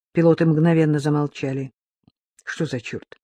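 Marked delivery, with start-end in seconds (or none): 2.4-3.2 muttered curse, much softer; cursing under breath. Acted. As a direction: grumble it low to yourself. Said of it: "Пробормотал себе под нос Фадеев".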